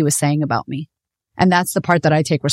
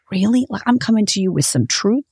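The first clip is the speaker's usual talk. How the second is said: higher-pitched retold indignation; mildly affronted disbelief, pitched up; incredulous; 4 semitones higher than usual. Speaker retelling her comeback to boyfriend's dad, incredulous.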